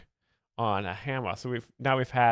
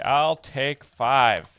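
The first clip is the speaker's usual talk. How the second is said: deadpan punchline; 6 dB louder, much slower than usual. Acted. Punchline delivered for the joke.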